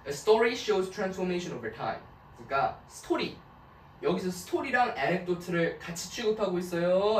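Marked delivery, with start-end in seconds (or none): 0.1-2.0 very slow, careful reading. Shown as a demonstration. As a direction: read out word by word for students. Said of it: "teacher reads text aloud slowly".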